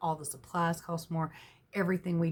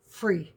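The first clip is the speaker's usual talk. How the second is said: free set apart by pauses; stress on free; 3 dB louder than usual. Real, not acted. Telling viewers about her free trailer, stress on free. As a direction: land on the word free all by itself. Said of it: "Emphasis on free".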